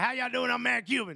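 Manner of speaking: put-on super-strong broad Southern US accent, laid on thick. Describing a cuban man, the speaker imitates his greeting in a super southern accent. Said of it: "with the su- super Southern accent".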